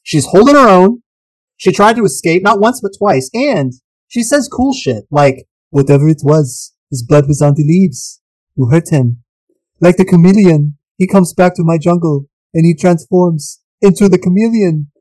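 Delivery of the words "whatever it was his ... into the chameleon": put-on a light Austrian accent on a jungle woman's lines, a bit gruff; Austrian Arnold accent. Host quotes Anna's cool line to cohost, mild Austrian accent. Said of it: "impersonation of Anna sounded a lot like Arnold".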